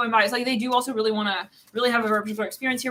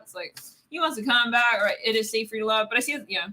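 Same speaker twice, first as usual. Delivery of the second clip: ordinary talk, nothing marked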